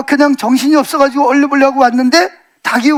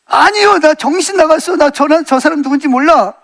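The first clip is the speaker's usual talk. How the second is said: blurted denial; 3 semitones higher than usual. Acted. Preacher acts Peter caught out denying Jesus, blurted denial. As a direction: blurt it out before thinking, pitched up at first. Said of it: "자기도 모르게 딱 튀어나오는 말이".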